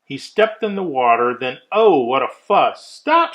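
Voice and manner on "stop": a shrill-free but sharp, much higher loud cry; screaming stop. Acted. The guest screams at Thidwick to halt, high and loud. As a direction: guest screams at the leaving moose. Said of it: "screamed his guest".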